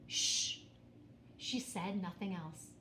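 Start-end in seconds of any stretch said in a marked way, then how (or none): 0.1-0.6 breathy unvoiced hush; whispered shh. A narrator's reading. Elephant hushing Pete, whispering. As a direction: hush him without any voice. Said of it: "The beast whispered".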